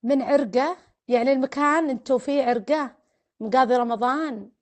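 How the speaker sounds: loud, eager questions; excited recognition. Real, not acted. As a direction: pounce on the name with delight.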